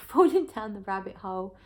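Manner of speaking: laughing through the words. Real, not acted. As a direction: giggle as you correct yourself. Laughs at her own correction.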